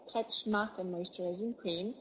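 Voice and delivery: slow, careful English accent on the product name. Shown as a demonstration. Presenter repeating the cream's name for viewers, slow English accent. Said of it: "j'ai dit avec mon accent anglais".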